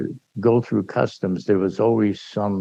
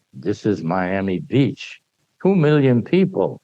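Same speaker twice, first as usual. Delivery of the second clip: slow, weighty showman's announcement; for the customs man, slow and dramatic. Shown as a demonstration. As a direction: unveil each key slowly like a showman. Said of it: "I'm making it as dramatic as I can".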